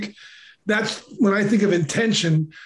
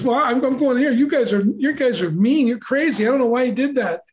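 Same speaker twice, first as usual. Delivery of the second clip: retold sulky kid; 5 semitones higher than usual. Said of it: "I'm all mad".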